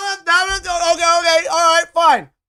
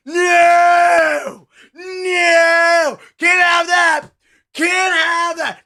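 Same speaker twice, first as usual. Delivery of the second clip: mock crying; 3 dB louder, much slower than usual. Mock tearful rant at chat.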